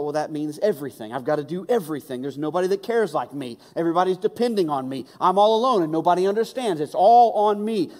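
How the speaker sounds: mock overwhelmed prophet; Elijah's lament. Preacher voicing Elijah's despair, lightly. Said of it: "he thought".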